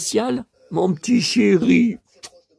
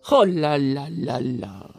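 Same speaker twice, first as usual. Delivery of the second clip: whispered dismay; 8 semitones lower, slower than usual. Real, not acted. Dismay at fourteen cards missing.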